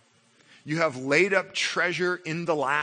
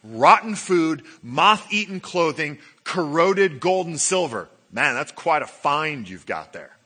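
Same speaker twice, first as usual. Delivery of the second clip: sarcastic; 6 dB louder than usual. Retold or imitated. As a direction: sneer at the pile like a fake compliment. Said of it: "James somewhat sarcastically goes".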